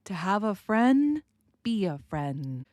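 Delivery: "friend" with no D, slow, ending on the N; dropped D in friend. Shown as a demonstration. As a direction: let the D in "friend" melt into the N. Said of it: "I am not going really to pronounce that D sound".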